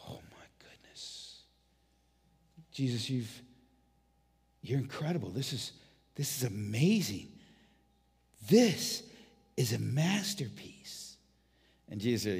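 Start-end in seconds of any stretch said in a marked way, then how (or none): 0.1-11.2 soft, breathless wonder; awed hush. Acted. Angels marvel softly at Jesus's masterpiece. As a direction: marvel under your breath.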